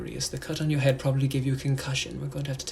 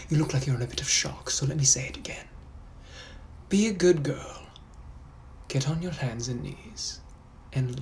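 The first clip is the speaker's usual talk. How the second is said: British gentleman. Acted. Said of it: "I'm also a British gentleman from the eighteen hundreds".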